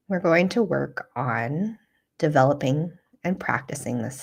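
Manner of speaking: calm, unhurried guiding voice with long pauses; guided meditation. Real, not acted. Teacher guiding listeners through a self-compassion practice, calm meditation voice. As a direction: lead them gently through the practice, leaving space.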